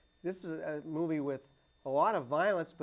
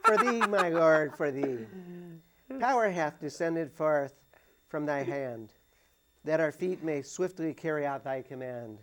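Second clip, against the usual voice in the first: put-on Irish accent; 2 semitones higher than usual. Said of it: "I don't know if I'll be able to do it in an Irish accent".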